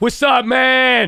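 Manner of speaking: put-on very high, loud, excited shout. Showing how talking loudly makes the voice go: imitating own excited yelling. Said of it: "and I get real excited".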